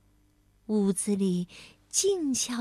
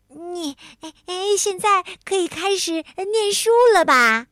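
strained, higher gasping words; breathless from squeeze; 6 semitones higher, 6 dB louder than usual. A narrator's reading. Tiaotiao squeezed in hug, breathless. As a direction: gasp out through a tight hug. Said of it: "被抱得都快透不过气来了".

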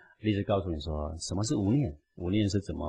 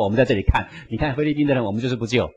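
mock spiteful jeer; 3 semitones higher, 4 dB louder, faster than usual. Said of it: "在旁边拍个影片说".

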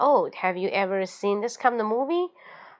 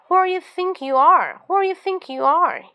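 louder, much higher outraged challenge; angry; 8 semitones higher, 5 dB louder than usual. Shown as a demonstration. Scolding a big-headed boaster, loud outraged demand. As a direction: blast the boaster with it. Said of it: "you feel so angry and say".

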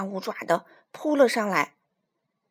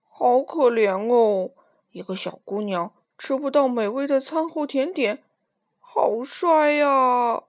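slow, loud, booming beast voice; big gruff voice; 6 dB louder than usual. Acted. Old lion pitying Minus from the cage, big slow voice. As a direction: boom it out like a huge old animal. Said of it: "粗大的嗓门".

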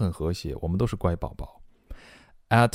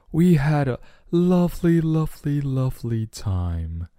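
high start, easing down on each "lovely"; storybook parent savoring the memory; gushing parent; 6 semitones higher than usual. Acted. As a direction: gush about a night out in character.

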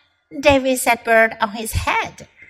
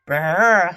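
shivering brr; 6 semitones lower than usual. Acted. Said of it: "he cried".

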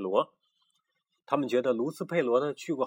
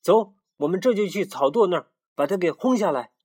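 much higher, louder egging-on chorus; eager followers; 9 semitones higher, 6 dB louder than usual. Acted. The little roosters agree and rally to drive Pidik out, eager. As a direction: cheer along and rally the gang. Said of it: "附和说".

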